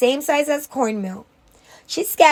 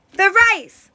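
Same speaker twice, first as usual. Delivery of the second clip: alarmed cry; 7 semitones higher than usual. A narrator's reading. Rice boiling over.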